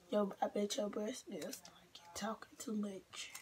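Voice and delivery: hushed reading; whispering. Retold or imitated. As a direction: whisper the comment. Reading joke comment whispered.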